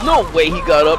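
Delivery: disbelieving. Real, not acted. Disbelief enemy revived.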